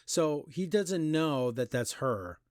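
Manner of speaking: slow, drawn-out deadpan question of logic, then silence; dramatic pause. Shown as a demonstration. Reviewer spelling out the plot hole, slowly for dramatic pause. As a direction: spell it out slowly and let it hang. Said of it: "The dramatic pause".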